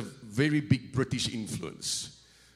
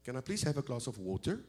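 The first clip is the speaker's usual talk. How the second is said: own American accent; 6 dB quieter than usual. Shown as a demonstration. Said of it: "we would order water".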